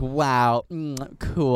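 understated mock-impressed drawl; mean sarcasm. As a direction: imitate a dismissive, hurtful brush-off. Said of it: "a really mean way".

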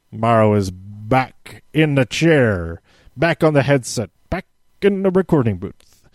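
a lightly hammed-up announcer build; mock wrestling commentary intro. Shown as a demonstration. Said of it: "I say it like that".

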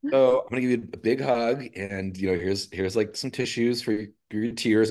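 lifted, lightly voiced caring artist; tattoo artist's gentle voice. Artist telling the client to pause, lightly voiced. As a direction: play the kind artist easing off.

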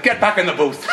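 high, loud comic command; imitating a boss's bellow; mock order. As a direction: send someone packing, half laughing. Bandleader orders him back, acted.

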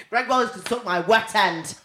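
cheeky slow insult. Retold or imitated. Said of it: "I just said".

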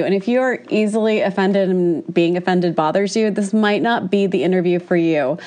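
blocked nose from a cold; talking through a stuffy cold. Real, not acted. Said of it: "apologies for my stuffy sounding voice".

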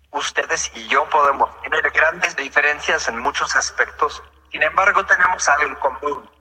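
even computer text-to-speech voice; synthesized voice. Real, not acted. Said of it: "esta es una voz sintetizada".

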